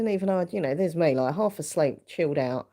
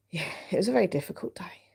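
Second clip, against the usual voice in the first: unvoiced hush about a hard day with mum; whispering; 5 semitones higher, faster than usual. Real, not acted. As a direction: whisper it so nobody downstairs hears. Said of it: "I'm whispering".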